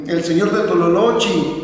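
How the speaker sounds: "Tololochi" ending in an EE sound; old dialect ending on "Tololochi"; old-time final I. Retold or imitated. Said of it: "no podían pronunciar la palabra E".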